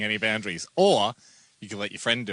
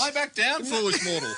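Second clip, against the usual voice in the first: higher mock villain command; dark lord; 10 semitones higher than usual. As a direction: order the mortal down.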